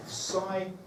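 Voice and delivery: "science" drawn out sound by sound. Shown as a demonstration. Teacher counting sounds, "science" slowly segmented. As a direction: separate and stretch each sound in "science". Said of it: "has got three sounds".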